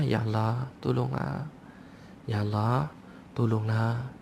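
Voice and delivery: hushed, drawn-out plea; lingering, subdued cry for help; pleading in hardship. Acted. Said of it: "Tapi kalau tengah susah".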